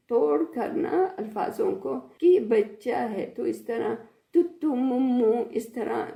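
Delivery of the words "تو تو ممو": put-on cooing baby talk, a little louder. Teacher mimicking parents cooing baby talk at a toddler, lightly. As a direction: lisp it like talking to a toddler. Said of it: "عربی culture میں اس طرح بات کرتے ہیں".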